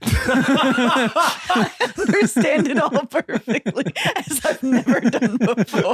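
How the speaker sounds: mock pompous. Mocking pretend understanding.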